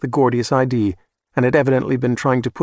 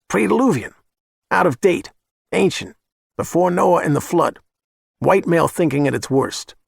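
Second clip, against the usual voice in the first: higher, spelling it out smugly; condescending explanation; 5 semitones higher than usual. Acted. Hitman explaining an old word to her client, condescending.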